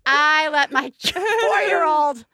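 very slow, dissolving into laughter; laughing through words. Real, not acted. Mother laughing at letting her four-year-old play with matches. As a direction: laugh it out, embarrassed at yourself.

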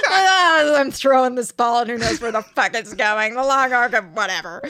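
defeated mock voice. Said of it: "Ross is throwing his hand in an arc that's so, like, defeated".

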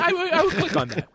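said through a laugh; amused, laughing delivery. Real, not acted. Laughing while repeating.

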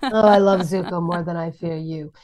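lightly put-on character voice, altered timbre; May. Shown as a demonstration. Voice actor giving fans a favourite quote, character voice. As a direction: slip a little into the character for a quote. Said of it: "I have to go in it".

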